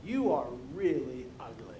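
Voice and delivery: rude parrot heckling a passer-by; parrot calling out. Acted. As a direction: swoop up on the greeting, drop for the jab. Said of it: "the parrot goes".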